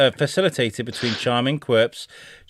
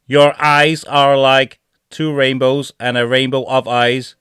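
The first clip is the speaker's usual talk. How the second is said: stupid AI voice; 4 dB louder, slower than usual. Acted. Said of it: "read these out in these stupid voices".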